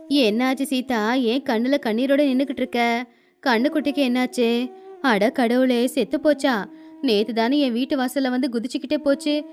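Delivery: a hint of a worried village granny; old grandmother. Old granny asks Seetha about the calf, lightly voiced.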